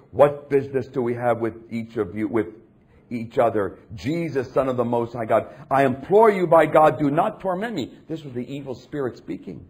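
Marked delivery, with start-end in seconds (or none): 0.1-7.9 raised voice, building in force to an imploring cry; a mild shout that swells on the plea; loud voice. Acted. Preacher voicing the evil spirit to Jesus, mildly shouted. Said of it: "shouting with a loud voice".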